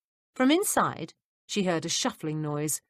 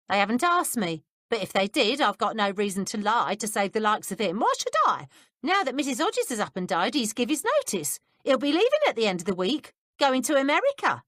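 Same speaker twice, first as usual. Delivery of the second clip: a lightly voiced, higher working-class housekeeper, indignant; 5 semitones higher, 3 dB louder than usual. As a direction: give the gossiping servant a bit of spite.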